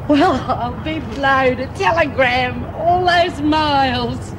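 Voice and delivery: slow, drawn-out astonishment; amazed. Acted. Prisoner amazed by a telegram from far away, astonished. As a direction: marvel at it, pitch lifted.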